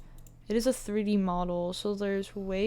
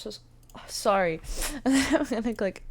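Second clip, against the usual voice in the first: talking through hiccups; words broken by hiccups; 4 dB louder, faster than usual. Real, not acted. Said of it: "I have the hiccups".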